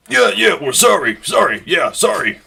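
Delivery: put-on the dimmer drunk fumbling an apology; eager drunk apology. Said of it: "The other guy goes".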